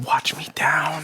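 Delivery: slow unvoiced whisper, stretched out; slow ASMR whisper. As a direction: drag it out in a whisper. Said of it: "doing my A S M R voice".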